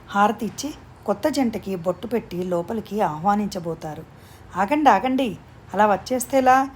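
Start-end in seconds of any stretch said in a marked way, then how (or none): 4.6-6.7 raised, higher call, halting them at the door; playful call to stop. Acted. Snigdha halting the newlyweds at the threshold, raised playful call. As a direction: stop them in their tracks with a bright call. Sister-in-law stops couple at door.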